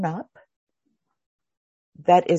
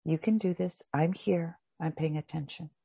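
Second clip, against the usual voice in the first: soothing inner voice; 3 semitones lower, 9 dB quieter than usual. Shown as a demonstration.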